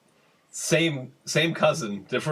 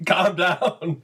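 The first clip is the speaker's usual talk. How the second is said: panicky dealer; 5 semitones higher, slower than usual. Retold or imitated. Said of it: "the drug dealer was like".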